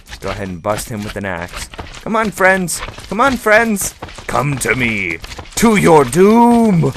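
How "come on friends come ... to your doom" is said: drawn-out high hammy villain call; slow theatrical villain menace. Pretend. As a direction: lure them to their doom, gloating. Luring slimes into trap.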